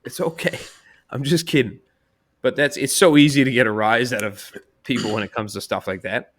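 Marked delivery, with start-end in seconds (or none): 0.1-1.8 high and loud, laughing it off; laughing, begging her to calm down; laughing backpedal. Retold or imitated. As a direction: take it all back through laughter.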